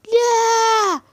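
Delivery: a sudden high yell of protest; shocked shout. Acted. Servant Amer interrupting the lovers, shocked shout.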